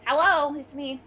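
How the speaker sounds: playful fake Italian hello; mock Italian accent. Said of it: "Okay, find the Italian".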